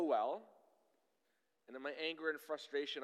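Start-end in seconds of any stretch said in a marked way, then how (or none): none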